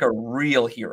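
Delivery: ordinary delivery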